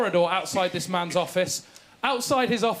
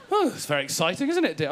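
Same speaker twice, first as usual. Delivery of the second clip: mock posh lady. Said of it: "As if you're supposed to go".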